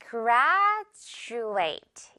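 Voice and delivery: "graduate" said GRAD-joo-ate, d turned to j; j sound in graduate. Shown as a demonstration. Teacher demonstrating "graduate" to students, j sound. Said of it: "여기 D가 지금 지읒 발음 납니다".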